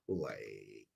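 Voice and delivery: put-on low, drawn-out Valley Girl "like". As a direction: stretch it out in a mock Valley Girl accent. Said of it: "Please do a Valley Girl".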